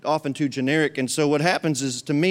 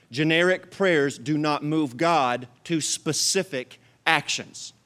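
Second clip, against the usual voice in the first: slow, deliberate repeat; slower than usual. Shown as a demonstration. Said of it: "I'm gonna say that again".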